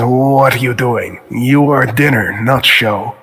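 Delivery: lightly voiced wolf leader, drawn out; a hint of a slow, unimpressed beast; wolf pack leader. Wolf leader answering the player as prey, lightly voiced and slow. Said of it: "The leader looks up and says".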